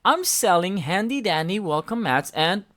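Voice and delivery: bouncy salesman monster; Grover voice. A narrator's reading. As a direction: sell it like a cheery blue monster. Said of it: "said Grover".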